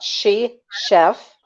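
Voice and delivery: slow, careful enunciation of the name. Real, not acted. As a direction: say each word slowly and separately. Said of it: "You gotta say it very slowly".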